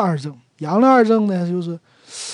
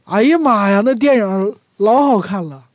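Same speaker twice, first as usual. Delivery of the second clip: louder, raving about the film; Northeastern exclamation; 3 semitones higher, 5 dB louder than usual. Shown as a demonstration. A Northeasterner raves to a friend about a film, gushing. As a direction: gush about a great movie, a bit louder. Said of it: "这个东北人有几个感叹词啊".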